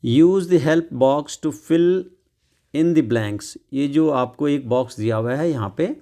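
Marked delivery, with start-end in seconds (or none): 0.0-3.6 reads each word out very slowly; very slow read-aloud. Shown as a demonstration. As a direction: dictate it word by word. Reading the instruction slowly.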